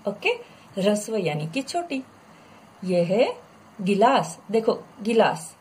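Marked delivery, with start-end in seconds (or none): 3.8-4.4 गिलास with a quick, short i; crisp correct demo of गिलास, short गि. Shown as a demonstration. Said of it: "मैंने उच्चारण कैसे किया". 5.0-5.5 गिलास with a quick, short i. Shown as a demonstration. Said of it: "मैंने उच्चारण कैसे किया".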